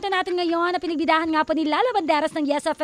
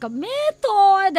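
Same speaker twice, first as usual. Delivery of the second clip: very slow, drawn out and louder; slow emphatic; 4 semitones higher, 4 dB louder than usual. Real, not acted. Host introduces the ask method to listeners, drawn out slowly. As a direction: spell out the method name.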